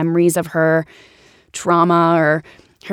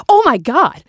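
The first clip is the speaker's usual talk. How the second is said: high, loud starstruck "Oh my God"; starstruck gasp; 8 semitones higher, 5 dB louder than usual. Retold or imitated. Fan spotting her comedy idol in Starbucks, high excited blurt.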